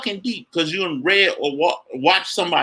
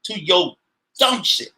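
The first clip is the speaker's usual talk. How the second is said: higher, firm refusal to take it; defiant inner retort; 4 semitones higher, slower than usual. Retold or imitated. Telling a critic he won't be put down. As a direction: act out brushing off someone's projection. S0 acts out his inner reply.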